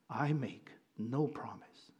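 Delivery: a hint of a deep, slow lion voice; slow and low like a growling lion. A narrator's reading. Preacher reading the lion's reply to Jill, lightly low and slow. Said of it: "a very low growl".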